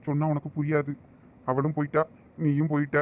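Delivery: low, quiet and heavy, words weighed down by grief; heartbroken. Acted. Alone after his friend walks out, low and grieving. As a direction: let each line sink as if it hurts to say it. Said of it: "என் மனசு எவ்வளவு வேதனையா இருக்கு".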